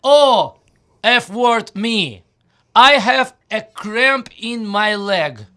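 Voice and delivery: slow, loud groan of a leg cramp; pained complaint. Shown as a demonstration. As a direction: moan it like your leg cramped. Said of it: "direct translation of Nogu Svelo".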